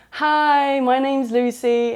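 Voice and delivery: put-on high, loud northern Yorkshire voice for the girl; Yorkshire accent. Drunk new friend introducing herself, mock Yorkshire accent. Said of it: "she's like".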